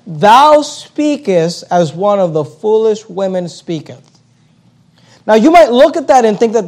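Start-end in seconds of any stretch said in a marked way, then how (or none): 0.1-4.2 each word laid out slowly; slow scripture reading. Shown as a demonstration. Preacher reading Job's reply to his wife, slow and deliberate. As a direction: read the verse slowly for weight. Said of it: "notice what he says".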